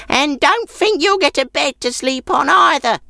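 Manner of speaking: put-on high, grudging old crone; an old woman shooing off a guest; sour old woman. Sour old woman refuses the man.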